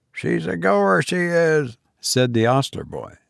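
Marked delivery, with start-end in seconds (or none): 0.1-1.8 put-on cockney boy. A narrator's reading. Ostler boy.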